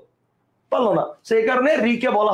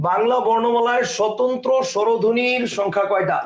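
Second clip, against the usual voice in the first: slow dictation; slower than usual. Shown as a demonstration. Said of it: "লিখো".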